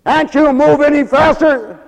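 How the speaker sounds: high, loud impatient jab; hammed-up rude customer; mock insult. Somebody insults volunteer.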